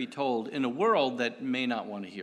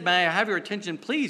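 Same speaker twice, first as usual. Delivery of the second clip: loud announcement; 5 semitones higher, 4 dB louder than usual. Retold or imitated. Retelling the man's subway call, loud and high. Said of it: "So when he said".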